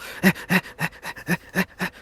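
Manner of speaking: quick voiceless huffing; hurried panting. Acted. Doc hoofing it back down the hall, panting. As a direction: pant as if trotting down a hall.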